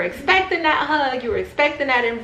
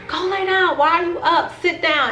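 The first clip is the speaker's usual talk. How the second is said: 1 mock scolding owner; 8 semitones higher than usual. Owner scolding dogs who stand.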